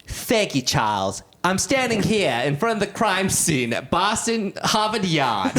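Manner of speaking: mock news reporter signing on with a Boston accent; Boston newscaster. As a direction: deliver a live crime-scene report, Boston style. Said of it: "like, newscaster".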